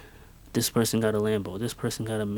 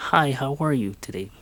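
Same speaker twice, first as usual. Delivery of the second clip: a bright put-on greeter voice, a little higher; squeaky retail voice; 3 semitones higher than usual. Shop worker greeting each customer in a fake squeaky voice. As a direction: chirp it like a shop clerk who has to. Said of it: "a squeaky voice that was not mine".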